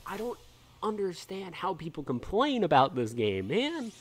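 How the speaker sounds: really worked up and ranting; getting heated. Real, not acted. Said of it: "I'm getting heated".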